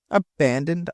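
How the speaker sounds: ordinary delivery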